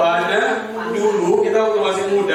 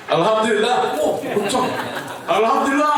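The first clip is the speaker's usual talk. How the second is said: each alhamdulillah higher, building delight; growing joy; 6 semitones higher than usual. Retold or imitated. Preacher acts Udin cheering on the speeding camel, excited and climbing. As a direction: ride the rising thrill, climbing in pitch.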